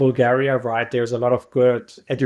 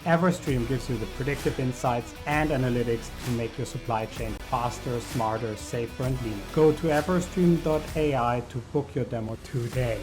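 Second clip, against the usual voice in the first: measured, softer ad-read voice; sponsor read; 8 dB quieter than usual. Acted. Host tells listeners about the podcast's sponsor, ad read. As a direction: read the sponsor message smoothly over music.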